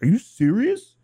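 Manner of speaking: put-on high, loud Boston accent; Boston accent, disbelieving and loud; Portnoy Boston accent. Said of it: "In his freaking Boston accent".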